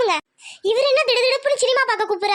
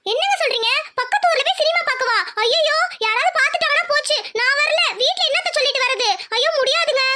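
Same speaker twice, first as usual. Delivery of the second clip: panicked refusal; 4 semitones higher than usual. Acted. She panics at the cinema plan.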